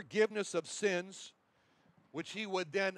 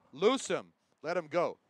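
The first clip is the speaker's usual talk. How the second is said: commanding voice; 5 dB louder than usual. Pretend. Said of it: "same commanding voice".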